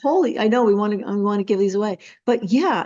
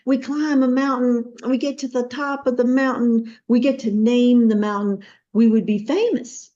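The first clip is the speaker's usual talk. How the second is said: lightly imitated Texas accent, raised pitch; 5 semitones higher than usual. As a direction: sell the idea in a mild Texas accent. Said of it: "slowly you tell me in your Texas accent".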